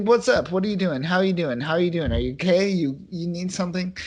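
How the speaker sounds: eager, helpful do-gooder; over-friendly check-in; Boy Scout mode. Retold or imitated. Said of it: "Boy Scout mode".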